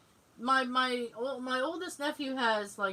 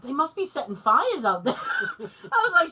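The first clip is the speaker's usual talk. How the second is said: louder, amused retelling through laughter; laughing disbelief; 4 semitones higher, 5 dB louder than usual. Retold or imitated. Daughter to mom about dad yelling, laughing disbelief. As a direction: crack up while acting out the astonishment.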